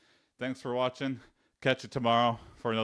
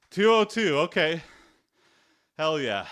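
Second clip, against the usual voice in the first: triumphant shout; 9 dB louder than usual. Real, not acted. Hits a new plank record.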